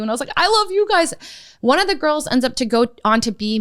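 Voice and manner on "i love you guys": high-pitched gushing, lightly acted; retold affectionate outburst, pitched way up. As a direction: gush it in a much higher voice. Retold tearful making-up with girls.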